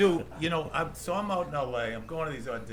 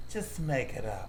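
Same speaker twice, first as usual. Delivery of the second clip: vicious put-down. Retold or imitated. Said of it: "big gay kind of vicious thing".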